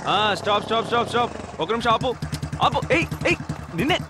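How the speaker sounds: urgent, rising calls to stop; calling after someone. Acted. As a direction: call out to halt someone walking off. Calling after someone walking away.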